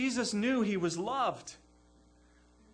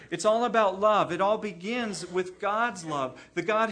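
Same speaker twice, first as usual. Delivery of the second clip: much louder, driving the point home; emphatic proclamation; 7 dB louder than usual. Real, not acted. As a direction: proclaim it to the congregation. Preacher stresses sermon's key point.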